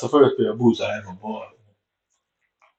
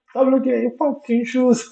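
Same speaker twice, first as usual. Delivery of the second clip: coach shouting. Retold or imitated. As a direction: bark it like the Rasta coach yelling. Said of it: "he's always shouting at me".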